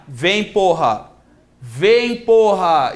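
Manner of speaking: drawn-out order from a mock robber; acted robber losing patience; impatient command. Robber ordering frozen victim over.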